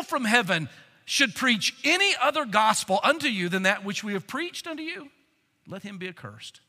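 a preacher reading the text; scripture reading. Acted. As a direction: read it out like holy writ. Reads verse six onward.

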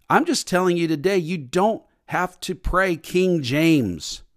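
ordinary talk

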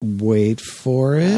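slow, suspenseful stall; drawn-out stalling. Real, not acted. Host stalling co-host while searching for a title, drawn out. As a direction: stretch each word out slowly.

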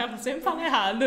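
loud, amused admission through laughter; laughing. Real, not acted. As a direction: laugh at the slip while talking. Amused at a slip of grammar. (falando alto, rindo)

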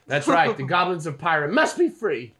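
rallying rebel. Acted. Goblin rebel cheering on the resistance, rallying. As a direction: proclaim it to the followers. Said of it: "And he goes".

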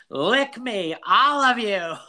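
high mock yell, drawn from a movie; imitated scream. Podcaster quoting Darla screaming at the crowd, high mock yell. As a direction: holler it high at a whole crowd. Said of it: "screams that out at the crowd".

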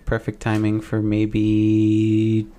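dramatic conspiracy tease. Acted. Dramatic conspiracy reveal, music.

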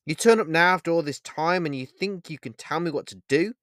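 high, loud near-scream in rising anger; almost scream it into his face. Acted. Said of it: "almost screaming into the man in black's face".

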